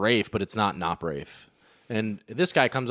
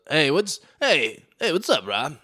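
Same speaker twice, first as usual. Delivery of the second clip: lightly voiced eager greeter, rising hey; a hint of an upbeat dude saying hey; mock bro greeting with rising hey; imitating Brendan; 6 semitones higher, slower than usual. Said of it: "That's how he talks".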